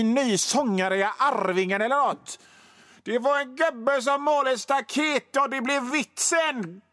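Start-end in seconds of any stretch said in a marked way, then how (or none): 3.0-6.8 much higher, broad jolly Gothenburg dad voice; exaggerated Gothenburg dialect. Radio host mocking his own Gothenburg dialect with a higher hammed-up voice. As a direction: ham up the folksy Gothenburg joker. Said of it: "Och då kan man inte prata så här".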